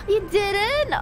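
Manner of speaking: gasping in disbelief; sharp gasp, then the question; surprised gasp. Real, not acted. Gasps at friend.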